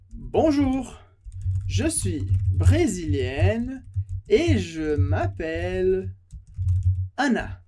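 slow, clear French greeting; careful French model sentence. Shown as a demonstration. Teacher models the sentence for Brazilian students, slow and clear. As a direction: model each French word slowly for the class. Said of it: "teacher models French sentence".

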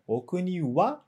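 short question, raise the pitch on "wa"; rising on "wa". Shown as a demonstration. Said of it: "um tom mais alto".

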